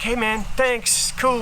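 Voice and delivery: slow casual thanks. Retold or imitated. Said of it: "they're like".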